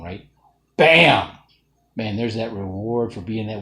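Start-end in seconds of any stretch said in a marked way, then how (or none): 0.8-1.4 sudden loud, high burst; explosive, emphatic interjection; loud exclamation. Real, not acted. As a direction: punch it out like an impact. Exclaiming the moment of reward.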